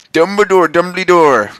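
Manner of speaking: high, loud calling out; frantic calling out; yelled. Acted. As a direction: yell the name for help. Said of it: "we both yelled".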